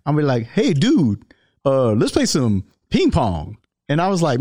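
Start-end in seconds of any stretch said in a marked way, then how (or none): 0.5-3.6 lightly voiced big bodybuilder, casual; a hint of Ronnie's voice inviting a game; Ronnie Coleman impression. Ronnie on the cruise ship inviting him to play ping pong, lightly imitated. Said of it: "I'm gonna do my Ronnie Coleman accent right now".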